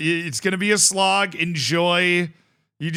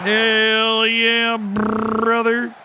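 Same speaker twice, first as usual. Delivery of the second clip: high, loud celebration; excited cheer; 7 semitones higher, 4 dB louder, much slower than usual. Real, not acted. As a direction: cheer it out, still buzzing. Celebrating after the goal.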